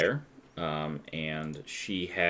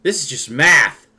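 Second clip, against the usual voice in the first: put-on excited kid; 8 semitones higher, 13 dB louder than usual. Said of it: "the kid goes".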